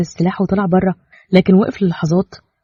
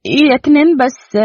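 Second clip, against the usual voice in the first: higher, slow pleading wife; voiced wife, pleading; 7 semitones higher, 3 dB louder, slower than usual. Wife gently pleading with Kenan, slow. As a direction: draw it out gently.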